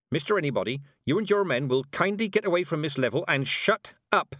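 a hint of a commanding old woman; firm, no-nonsense old witch; stern old witch. Weatherwax voiced.

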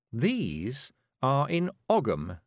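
slow, sly smile in the voice; smiling nastily. Acted. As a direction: savour each word to needle him. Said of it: "smiling nastily at Zack Zack".

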